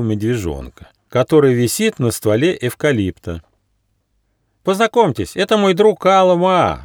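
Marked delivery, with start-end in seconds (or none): 4.6-6.8 high, merry squirrel voice; happy little squirrel calling out; cheerful cry. A narrator's reading. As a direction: introduce a friend with high-pitched glee. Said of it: "весело крикнул Бельчонок".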